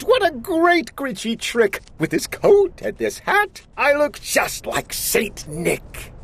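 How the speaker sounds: high, chuckling, delighted; clucking glee. Acted. Grinch admiring his Santa disguise, gleeful. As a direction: cackle through it, proud of the trick. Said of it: "he chuckled and clucked".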